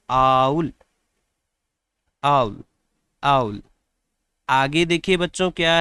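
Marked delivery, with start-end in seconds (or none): 0.1-3.6 आउल said slowly and clearly, like a vowel sound at the start; owl said clearly. Shown as a demonstration. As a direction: repeat आउल clearly for the children. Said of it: "इसके क्या पढ़ते हैं बच्चों?". (आउल को साफ़ साफ़ बोलकर दिखाना)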